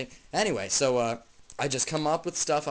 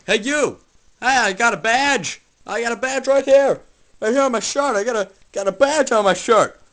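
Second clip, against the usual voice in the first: loud, higher, blustering yell; shouting badge guy; 6 semitones higher, 9 dB louder than usual. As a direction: puff up and shout like a petty cop. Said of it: "he's like".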